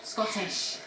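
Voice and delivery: soft whispered echo; whispering. Real, not acted. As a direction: whisper it back. Echoing the hushed joke.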